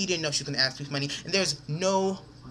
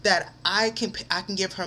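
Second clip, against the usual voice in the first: slow, higher-pitched outrage; disrespected, indignant; 3 semitones higher than usual. Real, not acted. Confronting friend who offered up his money, indignant. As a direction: draw out the affronted challenge. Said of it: "I feel so disrespected".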